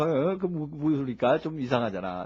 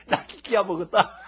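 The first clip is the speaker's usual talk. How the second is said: high, loud mock scolding father, laughing through it; exasperated father; 12 semitones higher, 5 dB louder than usual. Father scolds the son who keeps shouting, laughing. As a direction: play the fed-up father yelling at his son.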